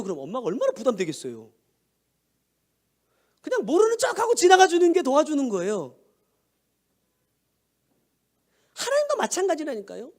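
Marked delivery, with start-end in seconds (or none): 3.4-10.1 raised, emphatic sermon voice; preaching. Acted. Pastor urging the congregation about God, preaching at full force.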